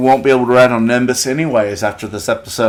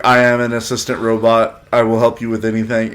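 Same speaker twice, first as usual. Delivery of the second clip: robot voice. Retold or imitated. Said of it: "I love robot humor".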